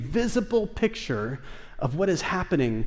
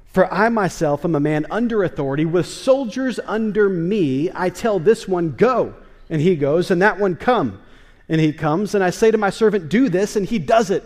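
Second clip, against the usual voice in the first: commanding centurion; 4 dB louder than usual. Acted. Centurion tells Jesus of his authority.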